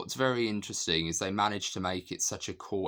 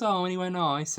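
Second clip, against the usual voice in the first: high, louder imitation of a casual inquirer; chirpy retold question; 12 semitones higher, 5 dB louder than usual. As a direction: mimic a breezy small-talk question, pitched right up. Retelling a film character's casual question.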